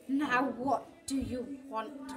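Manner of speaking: slow, cackling witch voice. Acted. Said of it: "cackled the witch".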